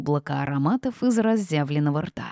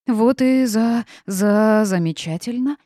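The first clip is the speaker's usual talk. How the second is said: stuck on the first syllable, pushing louder; stammering; 5 semitones higher, 5 dB louder, slower than usual. A narrator's reading. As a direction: stammer into the word, then get it out. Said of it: "не с первого раза удалось выговорить".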